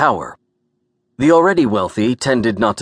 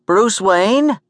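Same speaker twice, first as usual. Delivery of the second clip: high, incredulous New York woman; sharp New York accent; 12 semitones higher, 4 dB louder than usual. A narrator's reading. Gert sizing up the man in a tuxedo, sharp New York accent. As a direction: quiz him in a pitched-up New York accent. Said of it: "asked in a New York sharp accent".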